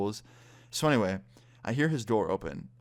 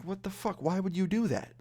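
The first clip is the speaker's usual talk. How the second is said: high-pitched disbelief, pitch way up; retold baffled protest, voice jumping high; incredulous; 10 semitones higher than usual. Questioning the friend who invited him while grounded, incredulous.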